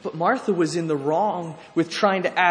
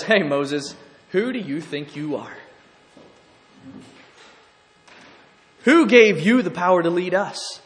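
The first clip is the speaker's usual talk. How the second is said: louder, a confrontational jab at the leader; defiant challenge; 8 dB louder than usual. Acted. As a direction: challenge Moses like a rebel. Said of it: "Korah comes up to him and says".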